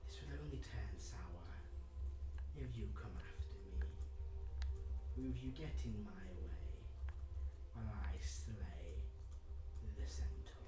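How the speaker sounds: slow, menacing villain; slow villain threat, part whispered. Acted. GM voices the villain.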